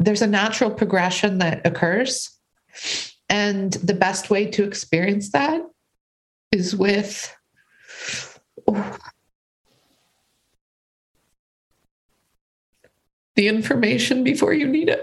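crying while talking, tearful voice. Speaking to another speaker about a challenging journey, crying while talking. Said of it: "I apologize for crying".

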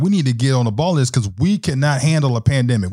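usual speaking voice

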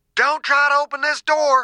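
very high, shrill yell. Reading a story aloud, a character warns through a door: shouting. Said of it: "Dew shouted".

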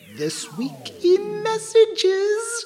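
very high, slow, stretched-out swooping sing-song. Host announcing the name of the community section on the show, going real high. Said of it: "going real high this time".

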